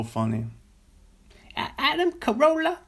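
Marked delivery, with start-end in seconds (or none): 1.6-2.8 very high falsetto Big Mama voice; high, loud falsetto character voice; Big Mama impression. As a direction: squeal his name like a sassy mama. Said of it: "That's his Big Mama character".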